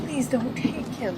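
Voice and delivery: a high, tearful whimpered please; whimpering. Acted. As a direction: whimper it, close to tears. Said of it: "I whimpered".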